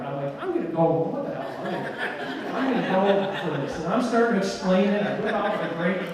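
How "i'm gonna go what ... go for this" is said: laughing. Real, not acted. Laughs while retelling his decision.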